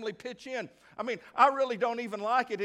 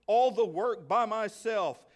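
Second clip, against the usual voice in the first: irritated, rising to a louder demand; irritated complaint; 2 semitones higher, 4 dB louder than usual. Acted. Martha scolding Jesus, irritated and loud. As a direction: snap it out, fed up. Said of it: "She said".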